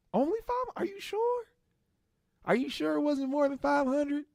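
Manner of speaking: very high, hammed-up fake shock; acting shocked. Joel pretending to be shocked by the money, very high and hammy. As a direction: overplay the surprise. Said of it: "he had to act shocked".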